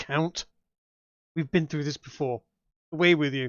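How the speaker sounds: spoken through giggles. A woman answers the Count's advance, giggling. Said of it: "she giggles and goes".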